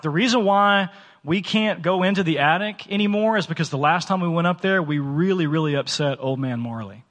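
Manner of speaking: straight-faced tall tale, told with assurance; confident deadpan. Retold or imitated. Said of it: "said with confidence".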